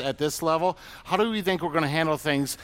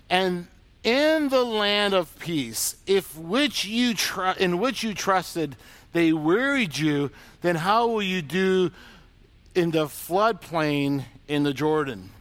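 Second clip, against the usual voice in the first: slow scripture reading; slower than usual. Acted. God quoting scripture, slow.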